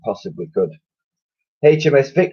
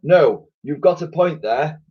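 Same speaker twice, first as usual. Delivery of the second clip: musing admiral; 7 semitones higher than usual. A narrator's reading. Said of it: "mused the Admiral".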